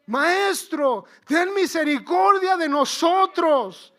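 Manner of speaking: loud, high, drawn-out cry for mercy. Acted. Lepers calling to Jesus from afar, crying out loudly. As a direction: call out to Jesus with lifted voice. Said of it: "alzaron la voz diciendo".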